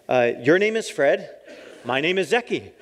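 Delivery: lightly voiced proud language learner; proud beginner. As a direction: recite it proudly, sure it's right. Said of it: "and I'm like".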